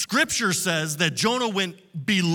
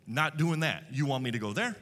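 low, quiet, sulky refusal, lower and softer; stubborn Jonah refusing; 6 semitones lower, 5 dB quieter than usual. Acted. Jonah refusing God's call, low and sulky. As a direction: mutter it like a prophet digging in his heels. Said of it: "Now, Jonah says".

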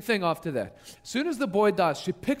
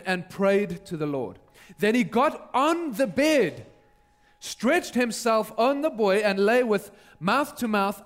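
measured, emphatic read-aloud with pauses; scripture reading. A narrator's reading. Preacher reads the passage to the congregation, measured and dramatic. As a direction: read it out deliberately, weighting key phrases.

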